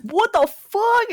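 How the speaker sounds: high, drawn-out mock shock; shocked character. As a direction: stretch it out in hammed-up disbelief. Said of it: "He's like".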